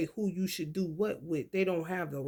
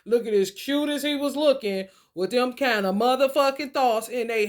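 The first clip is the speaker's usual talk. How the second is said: laughing rant; 5 semitones higher, 6 dB louder than usual. Real, not acted. Laughing while ranting.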